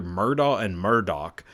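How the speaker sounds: "Murdaugh" with an open ending, then "Murdoch" with a final k; two surname pronunciations. Shown as a demonstration. Podcaster unsure of the family's name, contrasting "Murdaugh" and "Murdoch". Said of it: "how you pronounce their last name".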